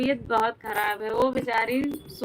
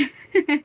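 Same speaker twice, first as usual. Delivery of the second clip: short laugh; 5 semitones higher, 7 dB louder than usual. Real, not acted. Laughs after telling sickness.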